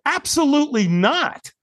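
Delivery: slow, high-pitched, emphatic "Absolutely not"; flat-out refusal, each word of "Absolutely not" weighted; intense refusal. Retold or imitated. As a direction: draw out "Absolutely", then land hard on "not". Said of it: "I said it with some intensity".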